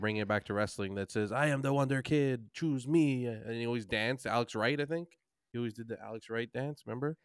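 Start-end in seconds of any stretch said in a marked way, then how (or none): 1.3-3.2 put-on German accent. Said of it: "he was German".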